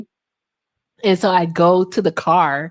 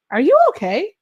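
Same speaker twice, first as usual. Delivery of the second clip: higher, lightly voiced worried friend; friend's concern; 10 semitones higher, 3 dB louder than usual. Her friend at the table asking, higher and concerned. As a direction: ask it up high like a worried friend. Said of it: "she goes".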